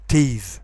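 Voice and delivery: TEETH ending in a buzzing th, like teethe; wrongly voiced TH. Shown as a demonstration. Teacher shows the mistake, voiced TH ending TEETH. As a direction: voice the end of TEETH. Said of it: "you shouldn't pronounce it".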